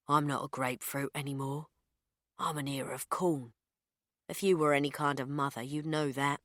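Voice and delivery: put-on the baby answering its mother back, mildly snide; baby's voice. The unborn baby talks back.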